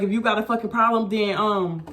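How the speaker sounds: a touch of a white manager's voice, a bit fast; mock the manager lightly; light white-guy impression of the manager; imitating white manager. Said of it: "you know how white people be talking".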